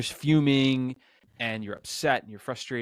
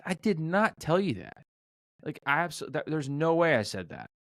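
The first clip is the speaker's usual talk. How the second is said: higher, pitched-up protest; retold denial; 7 semitones higher than usual. To the older lady, a higher indignant denial. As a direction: insist you never said it.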